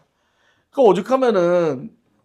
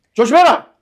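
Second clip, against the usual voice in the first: stern father warning; 11 semitones higher, 10 dB louder than usual. Retold or imitated.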